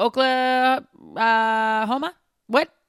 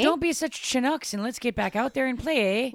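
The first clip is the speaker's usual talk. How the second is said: put-on Canadian accent; 3 semitones higher than usual. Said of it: "Mine starts drifting into, like, a strange Minnesota".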